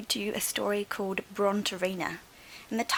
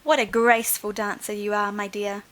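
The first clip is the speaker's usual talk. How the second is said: bright, louder delighted praise; delighted exclaim; 5 dB louder than usual. Acted. Teacher praising the dinosaur's dance, delighted exclaim. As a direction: gush over the graceful dancer. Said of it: "Madame Lucille exclaimed".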